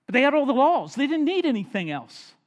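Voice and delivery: sarcastic, loud pulpit emphasis; emphatic preaching. Real, not acted. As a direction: hammer it home to the congregation. Preacher stressing the Pharisees' laws.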